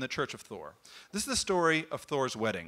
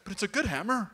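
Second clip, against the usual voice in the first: whiny plea; 6 semitones higher than usual. Acted. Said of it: "It's like".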